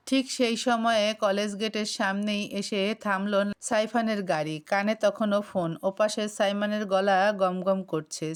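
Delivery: plain reading voice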